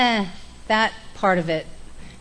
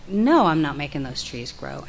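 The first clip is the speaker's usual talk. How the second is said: lower, deadpan denial; low, flat realization; 5 semitones lower than usual. Retold or imitated. Joe answering the counselor, low deadpan denial. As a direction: say it as the penny drops. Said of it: "I was like".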